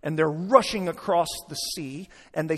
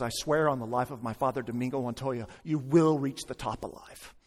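lightly acted solemn vow, low and softer; really serious; 5 semitones lower, 4 dB quieter than usual. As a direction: swear it gravely, voice dropped. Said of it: "gets really serious".

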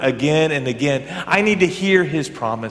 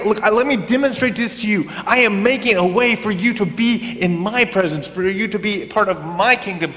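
lightly acted emphatic God, pitched higher; emphatic declaration; 5 semitones higher than usual. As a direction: declare it as if with an exclamation point. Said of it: "with an exclamation point, wants to say".

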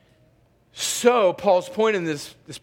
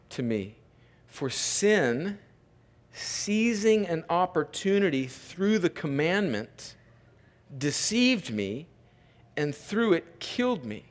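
softer, grave pacing with long pauses; scripture reading; 4 semitones lower, 5 dB quieter than usual. Real, not acted. Pastor reads how sin deceived Paul, subdued scripture reading. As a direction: let each phrase fall and rest.

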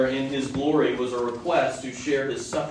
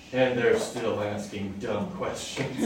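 amused at the disciples' dumb questions; real laugh breaking in; 3 semitones lower, slower than usual. Real, not acted.

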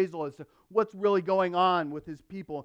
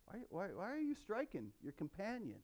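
hushed, much softer, repeated whys; ironic rebuke; 3 semitones higher, 15 dB quieter than usual. Retold or imitated. Preacher relives Moses scolding his brother, hushed ironic rebuke. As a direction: let the irony sink in quietly. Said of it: "Can you hear the irony there?".

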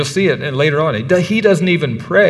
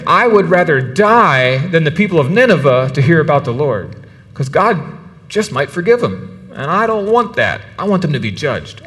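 1 defiant Jonah; 3 semitones higher than usual. Retold or imitated. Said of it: "He's saying".

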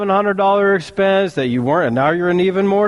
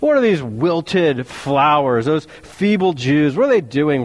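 Sanballat sneering; 5 semitones lower than usual. Acted. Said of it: "he said".

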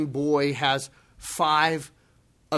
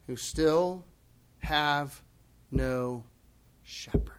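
slower, dropping down to a whisper at shepherd; fading to a whisper; 3 dB quieter, slower than usual. Real, not acted. Preacher to his congregation, softening to a whisper. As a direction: let each word sink until it's only breath.

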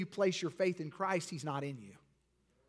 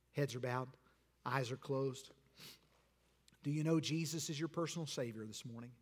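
invitation preaching. Acted. Pastor pleading with bowed heads at the altar call. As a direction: draw them in gently, then swell.

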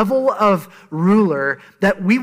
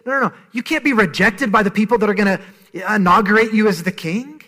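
rising, pleading and louder as it builds; higher and higher mock-panicked denial; panicked protest; 5 semitones higher, 4 dB louder than usual. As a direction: imitate Peter's panic climbing higher. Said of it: "Peter's freaking out internally".

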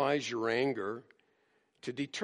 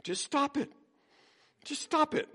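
flat, firm "stop it"; a hint of Bob Newhart's deadpan; deadpan command, pitched high; stern counselor; 12 semitones higher than usual. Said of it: "here Paul seems to say".

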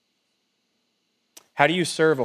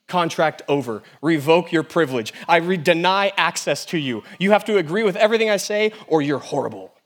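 mock indignant rant; 5 semitones higher, 5 dB louder than usual. Mocking the world's harsh rejection.

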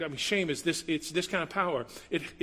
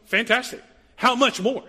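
higher and louder ringing question; "How much more?" called out loud and high; emphatic exclaim; 8 semitones higher, 9 dB louder than usual. Shown as a demonstration. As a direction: proclaim "How much more?" with a lift and punch. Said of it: "this is the phrase".

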